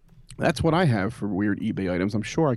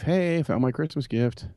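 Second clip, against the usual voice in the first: mock yell; 5 semitones higher than usual. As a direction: play at shouting news upstairs. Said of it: "I'll go yell up at my wife".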